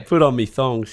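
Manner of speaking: playful hammed-up Australian accent. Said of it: "you gotta nail the Australian accent".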